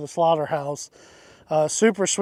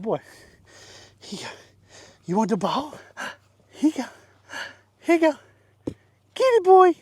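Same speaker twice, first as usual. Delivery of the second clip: coaxing the donkey; 7 semitones higher, faster than usual. Real, not acted.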